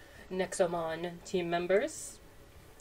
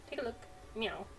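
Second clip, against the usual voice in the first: cat merchant voice; 3 semitones higher, 7 dB quieter than usual. Acted. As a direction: play a chatty cat merchant who meows between lines. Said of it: "going meow again".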